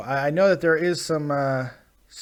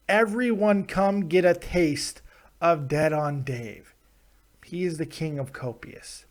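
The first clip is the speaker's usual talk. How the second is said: reading tweet. Retold or imitated. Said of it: "But this tweet".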